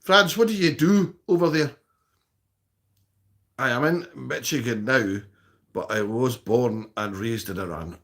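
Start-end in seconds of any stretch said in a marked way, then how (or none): 3.6-8.0 lower, measured read-aloud; reading chat aloud. Acted. Streamer reads Iranian viewer's reply aloud, low and measured. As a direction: read the message out evenly, dropping in pitch.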